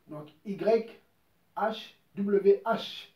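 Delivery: «Y H W H» épelé lentement, lettre par lettre; détacher chaque lettre de «Y H W H» avec une pause; spelled out letter by letter. Shown as a demonstration. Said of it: "les quatre lettres". (épeler «Y H W H» très lentement, lettre après lettre)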